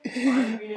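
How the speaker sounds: playful monster-like laugh; rolling mock-demon chuckle. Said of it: "राक्षस की तरह हंस रहे हैं".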